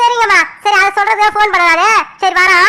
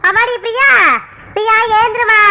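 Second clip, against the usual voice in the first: higher-pitched wake-up call; 3 semitones higher than usual. Acted. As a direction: call out to rouse a sleeping daughter. Mother waking sleeping daughter Priya.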